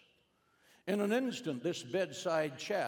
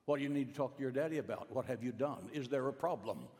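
rapid worried questions; faster than usual. Retold or imitated. Mother's anxious flurry of questions.

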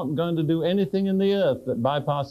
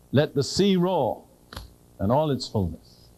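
scripture reading. Shown as a demonstration. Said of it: "I read that, and it's almost as if I were kind of setting the stage".

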